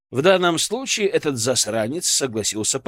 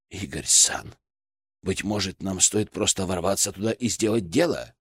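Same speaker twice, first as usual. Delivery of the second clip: lower, formal samurai voice; samurai spirit; 6 semitones lower, 5 dB quieter than usual. Acted. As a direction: speak low and dignified. Samurai spirit speaks to hero.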